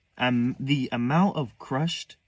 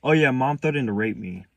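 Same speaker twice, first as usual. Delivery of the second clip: loud, slightly raised blurt; sudden, too-loud announcement to the room; 3 semitones higher, 8 dB louder than usual. Retold or imitated. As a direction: blurt it out all at once. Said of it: "kinda blurted out".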